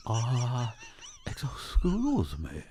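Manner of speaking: put-on slow, hesitant Asian accent. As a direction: mimic a halting Asian accent. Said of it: "in an Asian accent".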